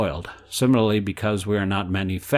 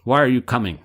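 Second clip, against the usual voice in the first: mock dog barking, a bit louder; 3 semitones higher, 4 dB louder than usual. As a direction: bark the words like a guard dog, half in fun. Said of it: "And the dog barks".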